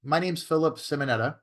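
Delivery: measured cold-call opener, slow on the name asked for; drawn-out, controlled sales-call greeting; changed phone tonality. Shown as a demonstration. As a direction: introduce yourself in a deliberate, measured phone tone. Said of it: "I change my tonality".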